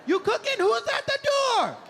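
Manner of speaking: very high, loud yapping dog voice; frantic, high-pitched mock dog shouting; excitable talking dog. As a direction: shout it like an overexcited dog at the door. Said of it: "If my dog could talk".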